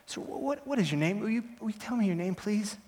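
a touch of pleading, faltering over the words; tentative plea. Acted. Defendant asking the stranger his name, hesitant pleading.

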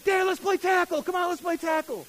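put-on excited kid voice. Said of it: "my kids are so high energy".

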